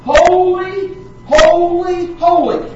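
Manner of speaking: preacher voicing the seraphim, lifted and bold; proclaiming. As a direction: ring out each holy in awe. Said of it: "But it does say".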